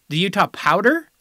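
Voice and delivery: "The Utah Powder?" with a rising, doubting tune; incredulous question. Acted. Host mocking the proposed name in disbelief. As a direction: repeat "Powder" as if you can't believe it.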